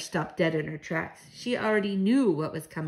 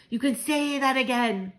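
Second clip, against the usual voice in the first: mildly excited, higher-pitched agreement; crying out; 7 semitones higher than usual. A narrator's reading. Grandmother agrees with the child, crying out. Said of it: "my grandmother cried".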